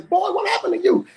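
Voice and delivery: mother waking to her bleeding son, high and alarmed; startled mother. Acted. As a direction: cry out like a shocked mama. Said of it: "She says".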